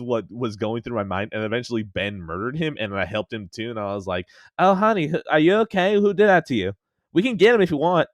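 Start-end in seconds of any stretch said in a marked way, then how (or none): 4.6-8.1 high, loud fussing housewife voice; Harley Quinn voice. Retold or imitated. To the injured pirate, a high fussing housewife coo. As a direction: fuss over the wounded pirate like a mother hen. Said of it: "this is the character I went for".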